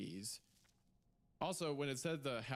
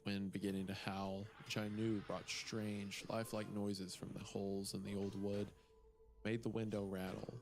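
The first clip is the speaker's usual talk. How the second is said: story narration. Acted. S0 reads the story aloud.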